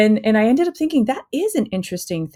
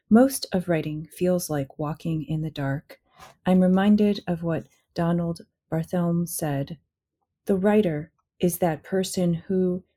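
reading aloud. Acted. Guest reads from her book.

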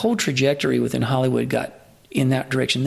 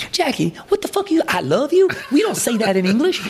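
much higher, laughing mock indignation; mock outraged Daryl; 11 semitones higher than usual. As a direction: play the appalled friend, cracking up as you scold. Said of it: "Daryl goes".

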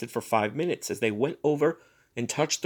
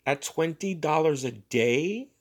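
cold thought; 3 semitones higher than usual. Acted. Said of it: "thought Missus Bellows coldly".

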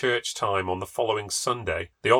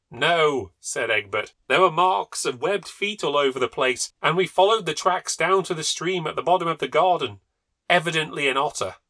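higher, louder certain tone; indignant husband; 6 semitones higher, 5 dB louder than usual. A narrator's reading. Husband correcting Sir Lulworth, loud and sure. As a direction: insist on the otter.

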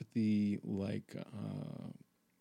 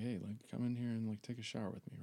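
sensual; 5 dB quieter, faster than usual. Retold or imitated. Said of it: "thinking all, uh, sensual".

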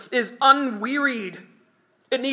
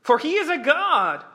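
mocking taunt; 7 semitones higher, 6 dB louder than usual. Elijah jeering at Baal's prophets, mocking and loud. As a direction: goad them mockingly, louder and higher. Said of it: "Elijah mocked them and said".

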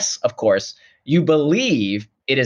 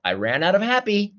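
mock deflated; 8 semitones higher than usual. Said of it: "You don't say".

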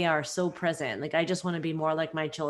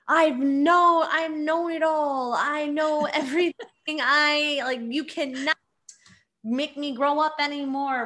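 mock know-it-all teen; 7 semitones higher than usual. Mocking her teenage know-it-all self.

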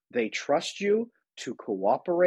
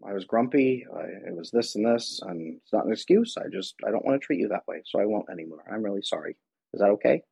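gentle apology. Retold or imitated. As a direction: apologize gently, like you mean it. Parent apologizing to child.

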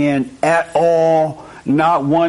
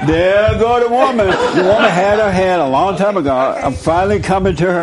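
playful teasing; 5 semitones higher than usual. Real, not acted.

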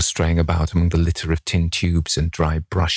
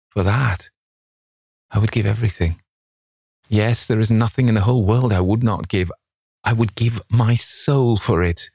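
higher-pitched, mildly impassioned lament; anguished longing; 4 semitones higher than usual. A narrator's reading. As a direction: yearn aloud, pitched up, with understated anguish. Dorian laments ageing while portrait stays young.

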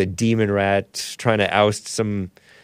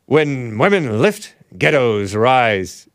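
mock Scottish accent; slower than usual. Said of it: "What kind of English is that?".

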